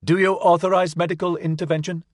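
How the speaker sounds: high, fast cartoon robot; like a chirpy Disney kettle; talking kettle voice. A narrator's reading. Robot repeats itself.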